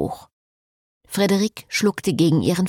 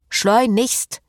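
shouted; 4 semitones higher than usual. A narrator's reading. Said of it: "Der brüllte ihm zu".

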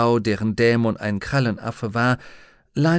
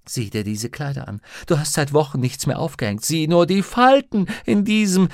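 scolding, rising higher and louder; nagging housekeeper; 6 semitones higher, 4 dB louder than usual. A narrator's reading. Mrs Lonsdale fussing at Lyra about her clothes, nagging. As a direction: fuss over it with growing indignation.

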